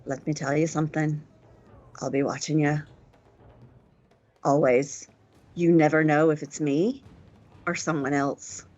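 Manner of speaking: menacing warning. Acted. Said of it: "she's like".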